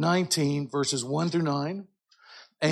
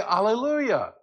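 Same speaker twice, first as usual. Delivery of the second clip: joyful exclamation; 5 semitones higher than usual. Shown as a demonstration. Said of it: "sometimes you just wanna say".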